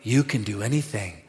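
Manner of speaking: soft, quiet wonder; quiet awe before Jesus; awed, hushed. Retold or imitated. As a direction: speak it like a private prayer. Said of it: "I go".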